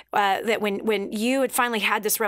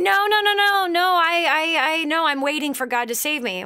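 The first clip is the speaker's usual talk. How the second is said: louder, higher no no no refusal; mock stubborn shout; 5 semitones higher, 3 dB louder than usual. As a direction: wave off the rescuers, insisting. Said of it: "And, and you".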